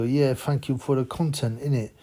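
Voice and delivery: a light mock London roadman accent; mocking a fake roadman accent, lightly done. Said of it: "With his fake roadman nonce accent".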